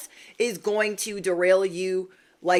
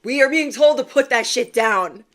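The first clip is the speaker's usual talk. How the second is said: emphatic; 4 semitones higher, 7 dB louder than usual. Real, not acted. Emphatic warning to viewers.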